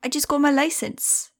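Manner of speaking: put-on proud teen girl in a German accent; excited German accent. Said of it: "she said excitedly in a heavy German accent".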